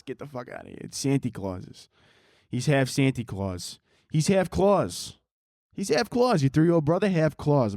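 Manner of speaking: lightly put-on Brooklyn Santa; Brooklyn Santa Claus. Santa taunting a kid about mom, mock Brooklyn Santa. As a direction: brag like a crude Brooklyn guy playing Santa. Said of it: "is my impression of Santa Claus".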